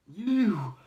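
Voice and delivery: high, loud bark of one word; sudden shout. Retold or imitated. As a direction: call him out sharply. Coach singling someone out.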